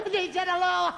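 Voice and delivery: high, loud words through laughter; hysterical glee. Acted. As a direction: squeal it out while cracking up. Child hysterical after prank call.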